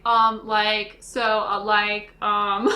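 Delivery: halting, punchy mock stammering; string out the fillers, each one separate; hesitant filler words. Co-host mocking own recorded rambling, exaggerated hesitation. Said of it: "me being like".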